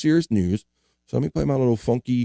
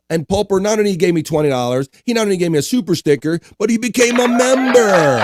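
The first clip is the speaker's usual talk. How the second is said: excited hype announcement; 8 semitones higher, 4 dB louder than usual. Real, not acted. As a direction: build up to a loud, high shout. Host hypes a viewer's membership.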